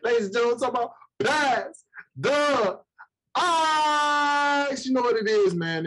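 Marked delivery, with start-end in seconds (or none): 0.0-4.9 slow, big hype announcer voice; announcer intro. Acted. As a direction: announce the show like a host.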